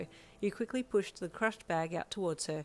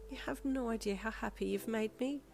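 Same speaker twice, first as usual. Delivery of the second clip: a touch of bubbly delight; 5 semitones higher than usual. Acted. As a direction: let the joy bubble up gently. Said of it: "she said in a bubbly voice".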